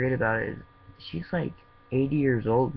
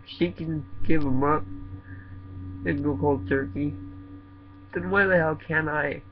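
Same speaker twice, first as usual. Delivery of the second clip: impassioned; 3 semitones higher than usual. Real, not acted. Passionate outburst about mom's sacrifice.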